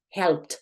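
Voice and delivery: "helped" repeated as "helpt"; strong final T. Shown as a demonstration. Teacher repeats the strong T example, crisp ending. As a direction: drive home the T ending "helped". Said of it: "esa T es fuerte".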